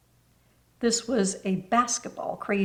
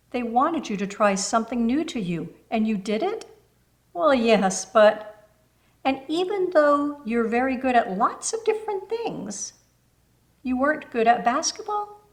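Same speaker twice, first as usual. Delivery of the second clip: put-on a higher, gentle older lady leading her on; lightly voiced kind neighbour, coaxing; 3 semitones higher than usual. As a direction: coax the girl toward the truth. Missus Moore coaxing Peggy.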